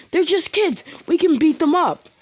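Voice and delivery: mocking taunt. Crowd mocking Bakugo and Todoroki.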